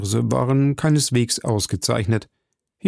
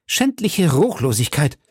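schändliche rising, higher and defiant; defiant outcry; 4 semitones higher than usual. A narrator's reading. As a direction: hurl schändliche Ruchlosigkeit at the judge. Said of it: "rief Milady mit der Begeisterung des Opfers". (trotziger Ausruf, schändliche ansteigend betont)

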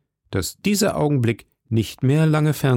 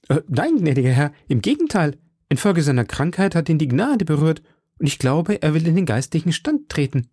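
lightly voiced landlady, pitched up; a hint of a helpful innkeeper woman; innkeeper woman explaining; 5 semitones higher than usual. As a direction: explain as the respectful hostess in a higher voice. Innkeeper explains the guest's conversion.

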